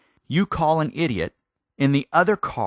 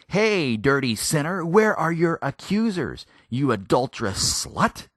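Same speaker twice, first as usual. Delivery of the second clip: mock harsh taunt; 4 semitones higher than usual. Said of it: "He didn't say".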